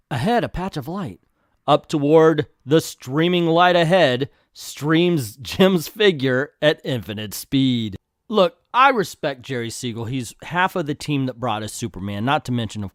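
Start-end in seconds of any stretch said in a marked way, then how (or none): 0.1-8.0 slow, grandiose caption reading; dramatic narration. A narrator's reading. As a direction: declaim it like an epic, stretching the words.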